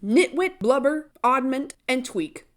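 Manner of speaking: a hint of Dumbledore declaring; Dumbledore's odd words. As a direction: announce it like a dotty headmaster.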